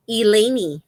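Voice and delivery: Eleni said ee-LAY-nee; Spanish-style name pronunciation. Shown as a demonstration. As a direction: end Eleni on a clear "nee". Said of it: "it's pronounced Eleni".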